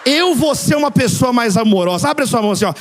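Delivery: loud, declarative altar-call cadence; impassioned preaching. Real, not acted. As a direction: lead the congregation in a fervent declaration. Leads congregation in closing declaration.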